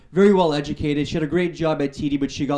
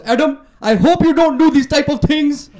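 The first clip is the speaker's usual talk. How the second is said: much higher, louder, slower anxious mom voice; worried mom voice; 11 semitones higher, 6 dB louder than usual. Retold or imitated. Mom watching Crank with her son, high worried mom voice. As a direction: fret like a shocked mother. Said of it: "She goes".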